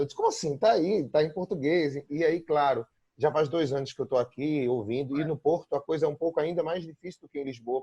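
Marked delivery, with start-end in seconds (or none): 0.2-1.9 higher-pitched retold protest, easing down; incredulous protest. Telling a friend it really is in Portuguese, incredulous. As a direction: push back in mild disbelief.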